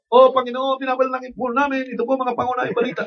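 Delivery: lightly voiced news anchor; Mike Enriquez. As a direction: ham it up like a TV anchor leading prayer. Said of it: "parang si Mike Enriquez eh".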